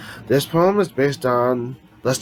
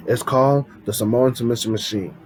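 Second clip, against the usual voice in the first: ordinary delivery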